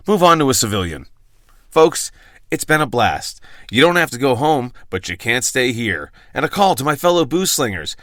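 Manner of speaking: measured host read with punched phrases; polished outro read, drawing out key phrases; scripted podcast sign-off. Acted. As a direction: deliver a rehearsed last-call bit to listeners.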